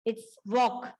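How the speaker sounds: "walk" said as wok, no L at all; silent l walk. Shown as a demonstration. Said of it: "हम इसे वॉल्क नहीं कहेंगे". ("walk" बिना एल की आवाज़ के)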